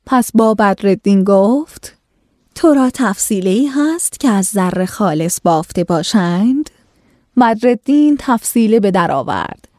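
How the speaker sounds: measured, formal storytelling read; classical story reading. A narrator's reading. Host reading an old tale to listeners, formal narration.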